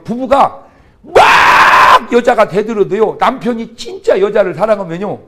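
slow, loud shouted point; preacher hammering the point home, loud and slow; emphatic shout. Real, not acted. Preacher shouting to the congregation, slow and loud.

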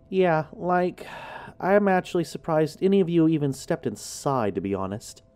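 dry, mocking jab at the group; sarcastic. The speaker teasing the friends who stepped inside, sarcastic. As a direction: say it with a sarcastic edge. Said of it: "she said sarcastically".

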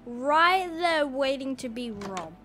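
loud, slow, drawn-out amazement; amazed excitement. Real, not acted. Player spotting a castle waiting to be robbed, loud amazement. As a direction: stretch the words out loudly in wonder.

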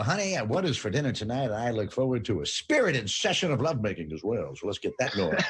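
lightly voiced 1970s announcer; hint of a TV pitchman talking to his wife; announcer voice at home. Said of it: "do they come home and go".

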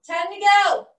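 loud, rousing call to the class; coach shout. Real, not acted. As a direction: push them with a shout.

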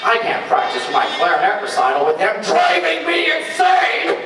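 whiny, exasperated Squidward. Acted. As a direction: sigh it out like Squidward. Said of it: "Squidward tentacles".

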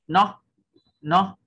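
"nó" pitched high and loud with a sharp rise; stressed rising tone. Shown as a demonstration. Teacher modelling the stressed syllable for learners, "nó" high and rising. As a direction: punch "nó" upward in a rising sắc tone. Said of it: "thêm dấu sắc vào".

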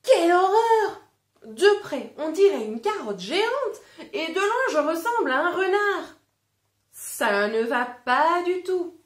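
high, loud cry of horror; horrified exclaim. Acted. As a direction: shriek it like a wolf shocked at his reflection.

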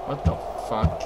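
hushed whisper. Real, not acted. Spooked in the dark.

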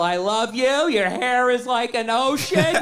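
tender lover. Acted. Gentle lover voiced mockingly.

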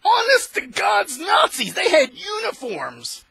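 high, loud, slow shout on honest; furious shout. Real, not acted. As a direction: bellow it with outrage. Heated rant about WWII.

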